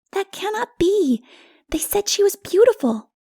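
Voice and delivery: a small one who won't believe it; doubting child. Acted.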